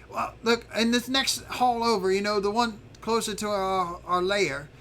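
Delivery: lightly voiced lookout, explaining the danger; Zarf, confiding a warning. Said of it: "he tells you, he says".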